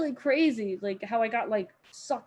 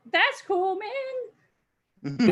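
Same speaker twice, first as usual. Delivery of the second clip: feigned approval; 9 semitones higher, 7 dB louder, much slower than usual. Retold or imitated. Acts awkward reply to a boaster.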